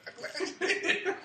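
very high, loud, drawn-out cackling words; imitated villain laughing. Joker laughing at his own joke, imitated cackling delivery. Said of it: "he laughing at his own joke".

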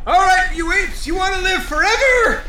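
rally the troops at full volume; drill sergeant shout. Acted. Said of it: "Keep it down".

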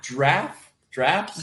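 puzzled "Giraffe" squashed to "draff"; "Giraffe" without its first vowel, rising; one-syllable giraffe. Real, not acted. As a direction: ask it with "Giraffe" as one beat. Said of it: "You're saying one syllable".

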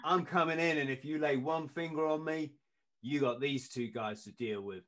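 put-on half-hearted Kiwi accent, mildly threatening; crap Kiwi accent. Owner warning the doorman about his two guys, crap Kiwi accent. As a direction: attempt a Kiwi warning, badly. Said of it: "I'm trying to do the crap accent".

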